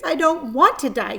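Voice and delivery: a crying pig pleading; moaning. A narrator's reading. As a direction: moan it through tears. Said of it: "he moaned".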